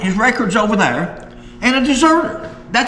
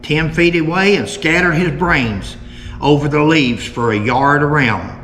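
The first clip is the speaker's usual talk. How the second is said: put-on measured old-account narration; reading aloud; 3 semitones lower than usual. Host reads the last article on Jim's killing, measured narration. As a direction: read it out in deliberate, separated phrases.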